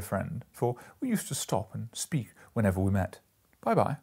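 a chatty merchant, bit brighter in pitch; businessman gossiping. Acted. Merchant joking to friends about a funeral, lightly voiced gentleman.

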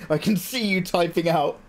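real laughter breaking into the words; laughing. Real, not acted. Streamer teasing chat about a nearly good joke, laughing. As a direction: talk through bubbles of laughter. Amused at chat's attempted joke.

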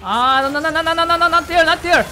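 loud, high panicked yelling; frantic shouting. Real, not acted. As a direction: yell it out in panic. Frantic shouting during a fight.

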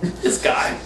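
low, whispered catchphrase. Acted. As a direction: breathe it low and secret.

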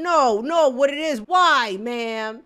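loud, exasperated yelling at the video; shouting at the screen. Real, not acted. Reacting to a dog clip, shouting at the video.

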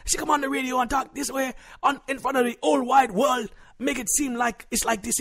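high, indignant complaining; offended husband. Acted. Husband complains his wife embarrassed him on air, indignant. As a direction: protest in a high, aggrieved voice.

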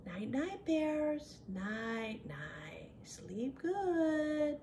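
soft, fading goodnight; gentle, hushed tuck-in voice; bedtime hush. Pretend. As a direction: lull the bears to sleep. Puts the bears to sleep.

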